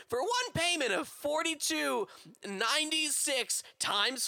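mock ad read. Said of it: "Nikki, you try".

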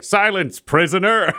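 high barked guard command; commanding shout. Acted. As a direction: bellow it like a stern guard. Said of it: "He's like".

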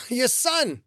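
strained high grunt, short of breath. Acted. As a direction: push the words out after being choked. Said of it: "grunting out the words".

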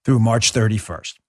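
steady upbeat sponsor read. Acted. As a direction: read it like a radio ad. Host reads gold ad.

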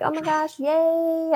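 high, thrilled little squeal; excited squeal. Retold or imitated. Bride thrilled the reef trip is on, squealing yay. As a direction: squeal with delight at the good news. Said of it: "so excited".

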